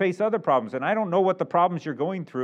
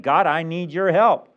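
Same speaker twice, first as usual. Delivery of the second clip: mild acted cry to God, louder and slow; understated plea for help; 5 dB louder than usual. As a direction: plead it slowly, as a prayer called out. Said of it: "She's crying out".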